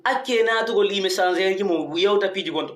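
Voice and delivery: ordinary talk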